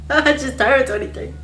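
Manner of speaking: very high, tearful wail; crying. Retold or imitated. Scared first-timer crying about jail. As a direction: sob out the words. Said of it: "Bitch, I was crying".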